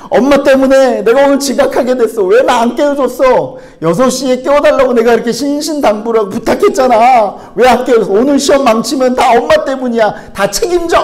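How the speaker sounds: high, loud whining tantrum; acted shouting of a frantic late schoolkid; child yelling at mom. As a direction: blame mom at full volume, very upset. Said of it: "고래고래 소리를 지르면서 막 눈물을 찔찔 짜면서".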